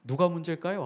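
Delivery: ordinary delivery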